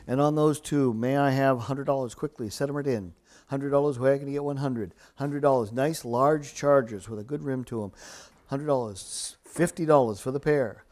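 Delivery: rhythmic auction chant; auctioneer. Real, not acted. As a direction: rattle off the bids in a steady chant. Live auction bid calling.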